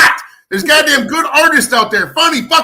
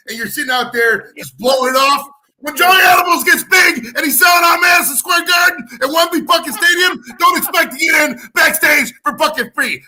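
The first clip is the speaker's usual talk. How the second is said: angry shout; 4 semitones higher than usual. Real, not acted. Host warning fans who skipped his shows, shouting angrily. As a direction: bellow the threat at the no-shows.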